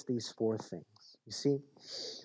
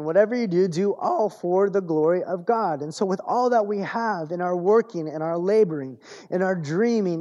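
raised, ringing preacher's build over a list; preaching at full force; 5 semitones higher, 5 dB louder than usual. Acted. Preacher rallying the congregation to worship, rising and forceful. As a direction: lift the congregation with each phrase.

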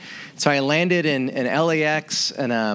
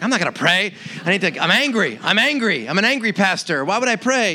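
higher, mock angry outburst; retold anger; 5 semitones higher than usual. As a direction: play up the grumpy refusal, pitched up. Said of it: "And I'm like".

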